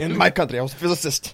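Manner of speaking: low, lightly put-on Russian accent; fake Russian accent. Friend playing an immigrant from Russia, fake Russian accent. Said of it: "can't even fake a Russian accent".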